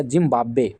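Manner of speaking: जिम्बाब्वे with a firm doubled b, "jim-BAAB-be"; correct pronunciation. Shown as a demonstration. Teacher asking students to get it right, carefully pronounced जिम्बाब्वे. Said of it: "इसका उच्चारण सही कीजिएगा".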